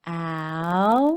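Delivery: Alligators sounded out syllable by syllable; slow phonics sounding out. Shown as a demonstration. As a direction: stretch each part of Alligators. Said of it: "say each syllable slowly".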